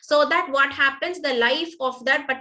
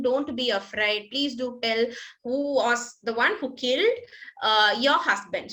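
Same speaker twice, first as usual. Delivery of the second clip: gentle coaxing; 2 semitones lower than usual. Acted. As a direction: coax her gently, don't scare her. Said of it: "in a gentle manner".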